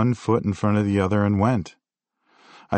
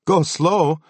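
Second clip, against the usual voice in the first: higher and louder, outraged; angry disbelief; 9 semitones higher, 5 dB louder than usual. Retold or imitated. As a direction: fire it back in disbelief. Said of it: "I shot back".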